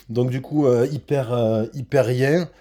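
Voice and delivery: ordinary talk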